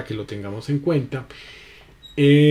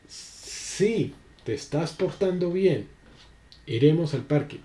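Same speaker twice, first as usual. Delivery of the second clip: gentle promise; 4 semitones higher than usual. Shown as a demonstration. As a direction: coax a child calmly. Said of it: "Son dos diferentes acentos".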